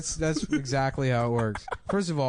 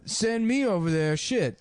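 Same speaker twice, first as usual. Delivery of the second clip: higher, boastful comic voice; Steve Harvey impression; 8 semitones higher, slower than usual. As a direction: lightly voice the comic. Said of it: "And he's like".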